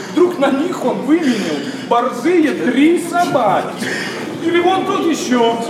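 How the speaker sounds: rising, indignant exclamation; outraged denunciation. Acted. Young man denouncing serf owners, rising outrage. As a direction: build in pitch as the outrage mounts. Denouncing landowner who traded servants.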